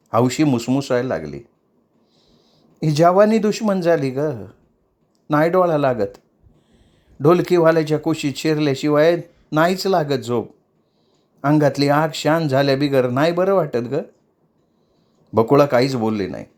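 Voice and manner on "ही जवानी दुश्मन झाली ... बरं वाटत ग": put-on higher, plaintive young dancer; mildly tearful young woman; tearful explaining. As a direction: lay out her trouble, pleading. Hausi laments her longing.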